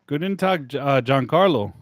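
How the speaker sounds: put-on German greeting; German accent. Doc character greeting Giancarlo on arrival, playful German accent. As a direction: greet them as a mock-German doctor. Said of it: "You had a German accent".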